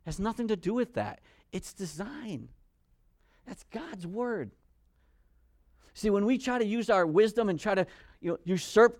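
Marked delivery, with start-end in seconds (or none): 0.0-4.5 plain. Shown as a demonstration. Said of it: "repeated softer".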